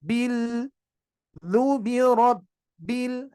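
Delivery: slow "du birob" with the b held silent; drawn-out recital, silent b; slow recitation. Shown as a demonstration. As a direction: recite "Bil, du birob, bil" steadily. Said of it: "Hilang, baru bil".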